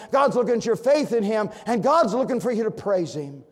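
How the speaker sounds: loud, high, ringing sermon delivery; full-force preaching. Acted. Preacher booming to the congregation in full-force preaching. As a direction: preach it out to the pews.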